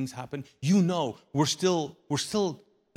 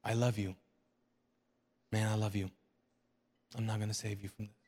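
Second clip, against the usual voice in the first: soft voice of God; 4 semitones lower, 5 dB quieter, much faster than usual. Acted. Quiet voice of God retold.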